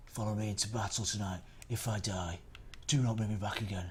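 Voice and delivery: a touch of rough, grim warrior; rally the troops grimly; rough Jon Snow. Acted. Streamer as Jon Snow, a hint of rough. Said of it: "He's sounding angry and a bit rough".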